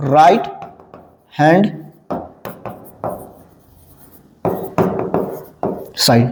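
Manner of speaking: "राइट", "hand", "side", each alone with very long pauses; word by word. Shown as a demonstration. Teacher dictates the full form as class writes, word by word.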